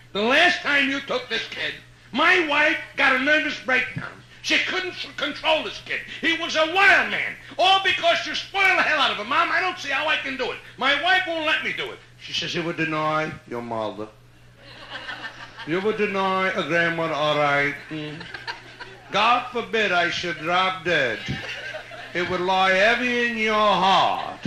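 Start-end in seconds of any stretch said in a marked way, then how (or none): 0.1-12.0 exasperated son. Retold or imitated. Son refuses his mother, exasperated and louder. 12.6-24.4 put-on slow, low, wounded Yiddish-accented guilt trip; guilt-tripping Yiddish mother. Grandmother guilt-trips her son, slow Yiddish accent. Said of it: "I love Jewish dialect stories".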